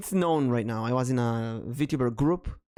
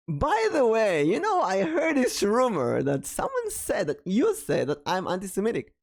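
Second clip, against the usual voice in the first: raised high, slow, a touch theatrical; mock-casual high voice; retelling a question; 8 semitones higher than usual. Telling the rumored person about the anti-Semitic rumor, high and drawn out.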